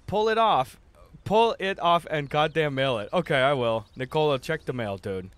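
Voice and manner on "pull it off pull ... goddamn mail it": loud joking order, pitched up; mock demand. Streamer demanding a viewer mail him a mustache, loud and joking. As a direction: bark it out like a playful bully.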